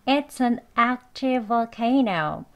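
"It's an active volcano" linked, one v joining "active volcano"; conversational pronunciation, slowed. Shown as a demonstration. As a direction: slowly link it, weakening "volcano" to "vuh-CAY-no". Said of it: "대화 발음으로만 해보겠습니다".

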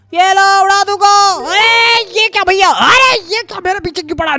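loud, high-pitched battle yelling; frantic shouting. Real, not acted. Player firing, then chased from behind, frantic shouting. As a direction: yell excitedly in the thick of it.

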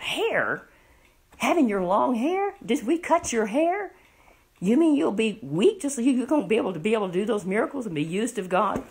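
acted incredulous questioning, rising in pitch; mild disbelief. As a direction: question it as if you can't believe it. Philistines question the secret in disbelief.

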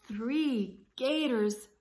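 slow, a touch of fear; nervous gulp. Acted. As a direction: count the gators anxiously. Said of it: "gulped Alice".

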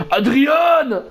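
slow drawn-out bellow of Adrian; Stallone shouting Adrian. Retold or imitated. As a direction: call out Adrian like Rocky. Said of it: "C'était qui déjà qui l'imitait". (cri d'Adrian à la Rocky, traînant)

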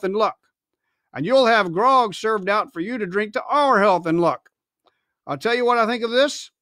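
formal and hearty, rousing the men; captain's speech. Acted.

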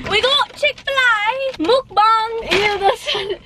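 slow, high giggling announcement; laughing. Real, not acted. Announcing mukbang while laughing.

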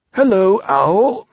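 high-voiced bear saying hello; Pooh greeting.

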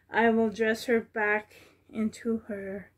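breathless, winded speech; out of breath. Real, not acted. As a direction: talk while catching breath. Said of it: "Sorry, I'm out of breath".

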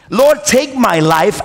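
slow, heavy repeat of the plea; weary plea. Retold or imitated. The prophet repeating his prayer to God, slow weary plea.

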